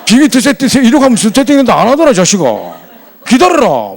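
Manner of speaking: loud, high comic rant; hammed-up telling-off, nearly yelled; imagined scolding. Annoyed fellow passenger's held-back scolding of a rude man, hammed-up rant. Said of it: "하려 하다가 내가 참았어".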